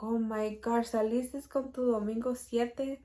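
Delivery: playfully voiced mom's tease; joking mother. Mom jokes on seeing the pregnancy test, playful mock shock. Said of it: "she said it, like, jokingly".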